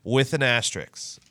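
asterisk ending in an X sound; two-syllable asterisk with -ks on the end; asterisk as astricks. Real, not acted. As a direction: say asterisk as "AS-tricks". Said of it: "Well, I say my, uh, C Ks with as an X".

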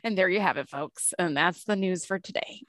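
mock anchor sign-off; news reporter voice. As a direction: wrap it up like a TV newscaster. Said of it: "You sound like a, a news reporter".

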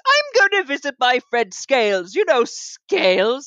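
lightly voiced pompous snob, barely changed; a hint of a self-important aristocrat. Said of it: "so I'm gonna do pompous".

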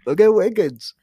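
hammed-up wow at a big play; mock amazement. Fan acting out awe at Wiggins, amazed.

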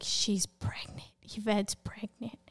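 soft, near-whispered announcement; hushed disclosure. Retold or imitated. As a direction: retell it as a quietly broken secret. Boyfriend breaks the news to leaders.

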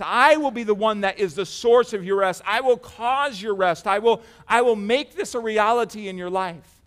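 insistent preacher's declaration, "I" leaned on; firm, forceful stress on "I will"; emphatic promise. Acted. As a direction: drive home each "I will" with firm stress. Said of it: "It's so emphatic, Jesus saying".

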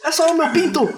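high, loud mock Spanish pleading. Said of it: "Aí eu falei".

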